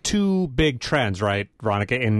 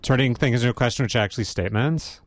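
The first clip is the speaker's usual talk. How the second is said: statement lifted up like a question; up talk; faster than usual. Shown as a demonstration. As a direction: end each phrase on a rising question. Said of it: "Like that".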